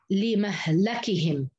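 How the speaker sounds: slow لمهلكهم as "li-mah-la-kihim"; double fatha reading. Shown as a demonstration. Teacher showing Shu'ba's reading, slowly sounded out. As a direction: stretch لمهلكهم out, a after both م and second ل. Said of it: "قرأ بفتح الميم واللام الثانية".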